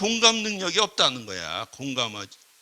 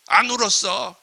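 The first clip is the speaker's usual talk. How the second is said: louder, dismissive boast; browbeating scold; 3 semitones higher, 5 dB louder than usual. Acted. Boasting to someone crying, browbeating. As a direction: shame the crier with your own toughness. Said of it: "윽박질르는 경우들이 있다는 거야".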